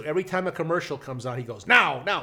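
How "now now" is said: high, loud, urgent blurting; impatient shout. Retold or imitated. Uncle at every commercial break, shouting impatiently. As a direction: imitate an over-eager uncle jumping in.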